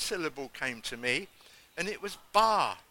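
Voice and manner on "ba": loud, higher single "ba"; lamb-like "ba". Retold or imitated. Preacher recalling his second syllable of prayer, lamb-like. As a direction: sound out a bleat-like syllable. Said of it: "I sounded like a lamb".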